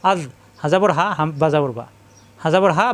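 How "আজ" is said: আজ ending in a soft th as in "this"; tongue tip lightly at the teeth on the জ of আজ; soft dental dhal. Shown as a demonstration. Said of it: "জিব্বার আগে দাঁতের আগে নরম করে". (আজ-এর জ নরম করে)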